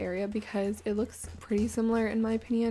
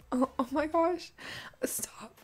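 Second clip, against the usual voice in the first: whispering; 5 semitones higher than usual. Real, not acted. Choking on ice water.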